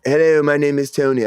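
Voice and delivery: lightly attempted British accent; a half-hearted go at a British accent; Anthony Hopkins. Retrying the actor's greeting after being teased, weak British accent. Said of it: "I can't do an accent".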